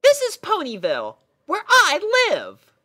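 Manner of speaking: very high, loud and bright-eyed; a chirpy girl pony puzzled by her steed; squeaky cheerful pony; pony princess voice. Acted. Pony character voice.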